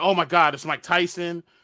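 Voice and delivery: ordinary talk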